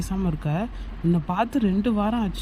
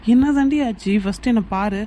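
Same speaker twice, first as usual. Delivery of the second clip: anguished outburst; 3 semitones higher, 5 dB louder than usual. Acted. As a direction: burst out demanding an answer. Lover pleading, bursts out.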